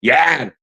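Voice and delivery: addle, short a, for idle; grandfather's Southern pronunciation. Retold or imitated. Imitating grandpa's Southern addle for idle. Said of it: "it would come out as addle".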